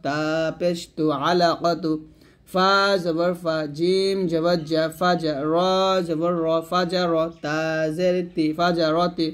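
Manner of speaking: measured recitation with stretched letter names; Arabic spelling drill. Shown as a demonstration. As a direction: recite letter by letter for pupils to follow.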